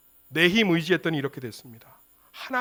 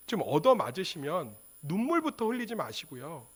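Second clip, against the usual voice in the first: ordinary talk, nothing marked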